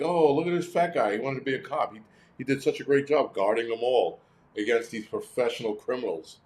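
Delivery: sarcastic, mock-sentimental gushing; mocking sappy tone. Mocking the movie's feel-good hero story, sarcastic gush. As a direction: lightly parody a cheesy feel-good narrator. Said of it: "trying to be a feel-good movie".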